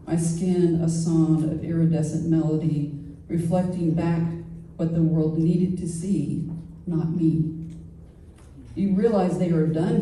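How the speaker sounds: measured recital of a poem, phrase by phrase; poetry reading. Acted. Poet reads Scarab Envy to a gathering, measured poetry reading. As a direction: read it as verse, pausing between lines.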